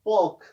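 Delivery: पॉर्क with no R, "pawk"; silent R. Shown as a demonstration. Teacher models the word, R silent in पॉर्क. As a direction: say पॉर्क, dropping the R. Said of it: "इसमें silent रहता है".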